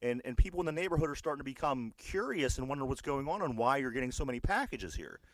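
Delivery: a hint of a nosy neighbour explaining herself; mild mock Karen complaint; imitating the Karen. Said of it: "the woman starts saying".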